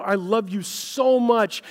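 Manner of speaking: slow, tender declaration; loving voice. Retold or imitated. Preacher voicing God's love to listeners, slow and tender. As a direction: pour love into each word. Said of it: "from a very much a love angle".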